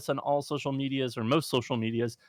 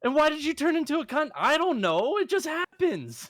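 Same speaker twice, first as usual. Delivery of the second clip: loud retort; 13 semitones higher, 4 dB louder than usual. Real, not acted. Heated mock quarrel.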